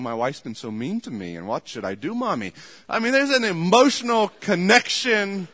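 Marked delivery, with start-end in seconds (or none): 0.0-2.5 mock whiny son. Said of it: "crying on her dish towel".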